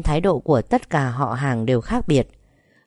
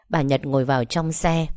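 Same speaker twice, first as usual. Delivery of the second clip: ordinary delivery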